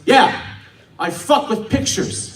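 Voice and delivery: mock-aggressive boast, hard opening; slow down into a blunt punchline; aggressive answer. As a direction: imitate a man bluntly announcing his job. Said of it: "That's an insanely aggressive way".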